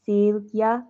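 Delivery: "Celia" as SEEL-ya, rising at the end; long-ee pronunciation. Shown as a demonstration. Stitcher checking the viewer's name, long-ee pronunciation. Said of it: "Is that what I said first?".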